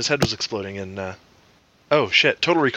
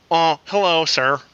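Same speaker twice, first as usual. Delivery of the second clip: Morgan Freeman impression; 4 semitones higher, slower than usual. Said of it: "closest I ever get when I try to do a Morgan Freeman".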